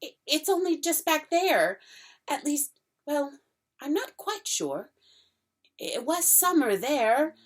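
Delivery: put-on a puzzled little girl explaining; a lightly voiced puzzled Lucy; young Lucy. Lucy voice held.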